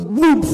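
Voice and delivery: loud, sudden "whoomp"; imitated whoosh. Crowd clearing round the vomit, sudden whoomp. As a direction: punch out the sound of a crowd parting.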